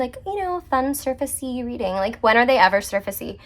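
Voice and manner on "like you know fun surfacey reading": lightly put-on, higher-pitched airy voice; mock breezy. Reader mocking her expectation of a light reading, mock breezy. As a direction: toss it off as if it were trivial.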